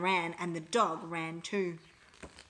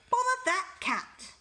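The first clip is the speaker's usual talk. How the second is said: higher exasperated father; annoyed dad; 10 semitones higher, 4 dB louder than usual. A narrator's reading. Dad missing the wrestling, annoyed and higher. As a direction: grumble it at the cat, fed up. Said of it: "Mister Thomas said".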